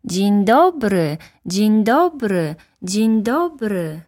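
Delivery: high, slow, echoing repeats. Acted. The echo answers the little prince, slow and high. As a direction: draw the greeting out like a mountain echo. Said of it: "odpowiedziało echo".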